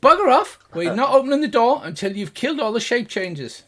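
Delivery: high, loud angry yell; angry shout. Acted. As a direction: bark back furiously through the door. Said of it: "And another voice goes".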